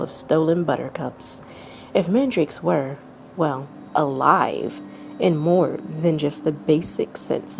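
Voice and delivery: calm, even storytelling read; measured narrator voice reading a tale; story narration. A narrator's reading. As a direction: read it like a bedtime story to listeners. Reads a fanfic story aloud.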